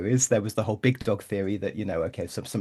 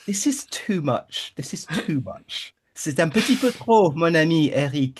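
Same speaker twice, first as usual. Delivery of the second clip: exasperated aside; 4 semitones higher than usual. Retold or imitated. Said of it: "I'm like".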